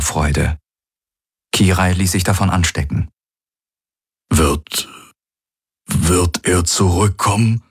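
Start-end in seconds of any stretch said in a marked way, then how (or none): 4.3-7.6 uncertain. A narrator's reading. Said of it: "fragte Hox unsicher".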